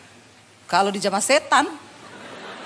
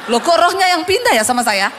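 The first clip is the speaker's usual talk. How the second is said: laughing quip; 4 semitones higher, 5 dB louder than usual. Retold or imitated. Woman's joke, retold laughing.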